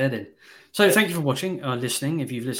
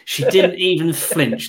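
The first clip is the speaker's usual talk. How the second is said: higher, louder, slow, like a grand film actor; dramatic movie line; 4 semitones higher, 9 dB louder, slower than usual. Shown as a demonstration. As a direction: savour each word of "She didn't even flinch" as a staged film moment. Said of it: "That is a master at the facial".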